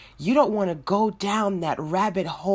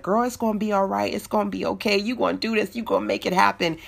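brisk, upbeat pep talk, a bit higher; encouraging God voice; 3 semitones higher, much faster than usual. Acted. God's voice encouraging an anxious woman, upbeat and quick. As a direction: cheer her on like a best friend. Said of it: "you're hearing voice like".

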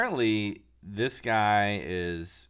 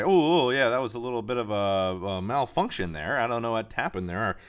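mocking news anchor; 4 dB louder than usual. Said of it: "had to backtrack and say".

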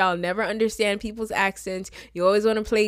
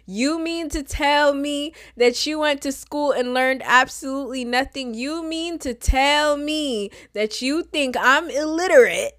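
incredulous indignation; 5 semitones higher than usual. Acted. Confronting people who doubt she can say her name, incredulous. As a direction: pile on the affront with rising pitch. Builds indignant comeback to correctors.

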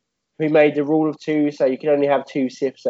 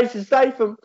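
dying gasp; 8 semitones higher than usual. Retold or imitated. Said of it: "As he dies".

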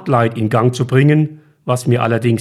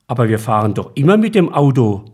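surprised; faster than usual. Acted. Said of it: "erwiderte Tobias überrascht".

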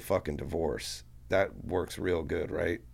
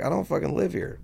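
high-pitched outraged retort, much higher; indignant protest; 11 semitones higher, 3 dB louder than usual. Retold or imitated. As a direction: squeak out the disbelief. Retold protest to prosecutors.

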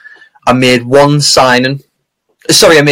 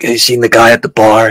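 cowboy voice. Retold or imitated. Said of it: "this kind of cowboy, uh, Wild West".

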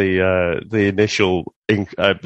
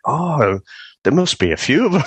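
laughing realisation; 6 semitones higher than usual. Retold or imitated. Retold self, laughing.

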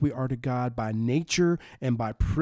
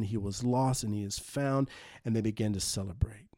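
whispered; 3 semitones lower, 6 dB quieter than usual. Acted. Sermon climax, whispered line.

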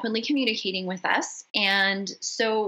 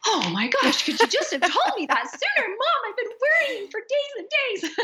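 relieved exasperated daughter. Retold or imitated. Mother retelling her daughter's relieved outburst, higher with laughter. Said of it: "And she was like".

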